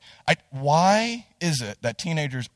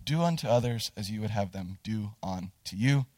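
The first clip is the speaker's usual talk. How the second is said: grandmother's still small voice; 7 semitones lower, 8 dB quieter than usual. Retold or imitated. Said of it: "the still small voice of my grandmother".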